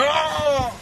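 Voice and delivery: drawn-out acted "ah"; exaggerated cry after logging off; mock outburst. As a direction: let out a long put-on wail. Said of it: "close the gram and be like".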